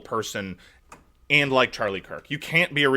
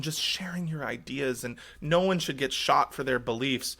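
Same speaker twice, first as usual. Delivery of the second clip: slow, drawn-out mock indignation; mock outrage; 3 dB quieter, slower than usual. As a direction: parody a pearl-clutching mourner. Mocking outraged conservatives' reaction.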